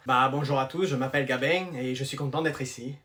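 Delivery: put-on southern French accent with nasal "Gabin" ending in ng; low-key southern French accent, words rolled out. New pupil from the south introducing himself, southern French accent. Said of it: "tu l'entends pas à son accent?".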